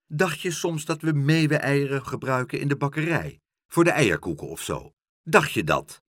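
a touch of sarcastic scorn; snippy shopkeeper sneering at a child; mocking baker's wife. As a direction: ridicule the boy's idea.

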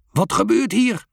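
a hint of a bellowing father; mild boom. A narrator's reading. A father thunders at the boys in the ditch. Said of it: "buldert een stem".

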